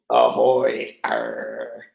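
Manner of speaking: a lightly put-on bad Irish accent; joking bad Irish brogue. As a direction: toss off a quick, bad Irish pirate-like ahoy. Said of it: "I just went Irish there. Bad Irish".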